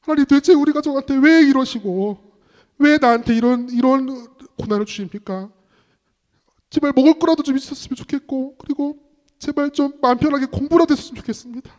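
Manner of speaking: loud, high pleading with God; anguished prayer. Retold or imitated. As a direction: cry out a reenacted prayer of complaint. Retells anguished questioning prayer to God.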